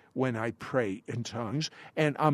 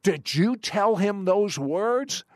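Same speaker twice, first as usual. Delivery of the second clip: retold indignant accusation, pitched higher; mildly angry, demanding an answer; mock angry; 4 semitones higher than usual. Suspicious husband confronting his wife over the words, mildly angry. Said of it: "looks angrily at his wife".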